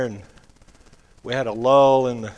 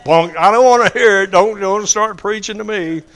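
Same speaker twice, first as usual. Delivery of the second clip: dismissive scoff; 7 semitones higher, 9 dB louder than usual. Retold or imitated. Coworker brushing off the preacher.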